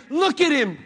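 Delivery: insistent loud exhortation; pointing to Christ. Acted. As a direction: point them to him. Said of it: "I've got to say".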